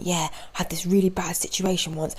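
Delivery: hushed, conspiratorial retelling; a hushed, secretive aside; overheard whisper. Retold or imitated. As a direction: whisper it like eavesdropped gossip. Retelling the stranger's story outside.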